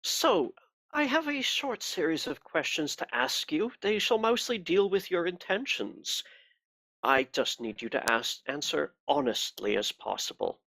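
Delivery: a cold, pious interrogator; cold pious accusing. Acted. Inquisitor begins questioning.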